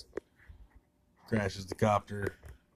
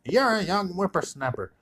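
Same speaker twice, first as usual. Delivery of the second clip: high, heated mock comeback; escalating mock retort; 9 semitones higher than usual. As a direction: fire it back at the top of the squabble. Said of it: "talking trash".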